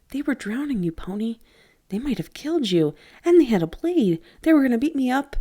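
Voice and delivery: put-on boy justifying the killing, frightened; quavering voice. A narrator's reading. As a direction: panic spilling out in defense. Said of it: "His voice quavered slightly".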